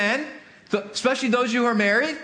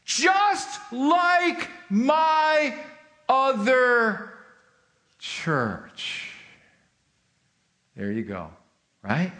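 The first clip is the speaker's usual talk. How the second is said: mock gotcha; 2 semitones higher, much slower than usual. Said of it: "we go".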